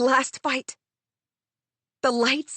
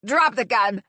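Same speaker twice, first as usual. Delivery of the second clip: barked order. Acted. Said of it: "Ariadna barks".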